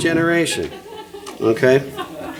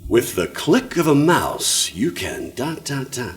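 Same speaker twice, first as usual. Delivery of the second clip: mock ad voice; slower than usual. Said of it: "You've all heard this".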